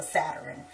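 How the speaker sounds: "Saturn" as SAT-er-in; mimicking relatives. Relatives brushing off her correction, "Saturn" as Saturin. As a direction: add an extra IN to "Saturn". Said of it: "And they're like".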